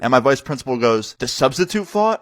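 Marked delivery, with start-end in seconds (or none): 1.2-2.2 high-pitched, incredulous question; shocked. Retold or imitated. Vice principal hearing the substitute fought, shocked. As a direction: imitate someone who can't believe the news. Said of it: "just as shocked as you are".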